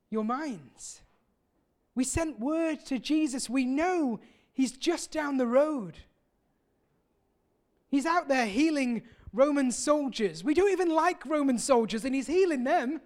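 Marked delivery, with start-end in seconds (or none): 1.9-13.0 raised, indignant complaint in their voices; mildly hammed-up outrage of the grieving sisters. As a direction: voice the sisters' hurt indignation, pitched up. Voicing Mary and Martha's indignation.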